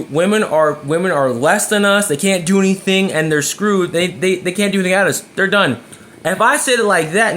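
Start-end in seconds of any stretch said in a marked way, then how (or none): 0.0-5.8 scornful blunt version; contemptuous tone. Shown as a demonstration. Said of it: "when I say it like that, in that tone".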